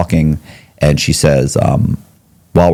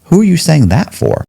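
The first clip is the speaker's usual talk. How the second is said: incredulous; 11 semitones higher than usual. Retold or imitated. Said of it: "I was thinking".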